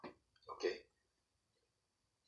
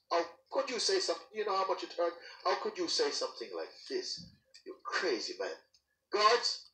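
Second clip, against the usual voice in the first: much higher, fast, outraged; king furious at his counselor, high outraged shouting; raging king; 11 semitones higher than usual. Acted. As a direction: rage at the counselor, then shout for guards. King flies into a rage.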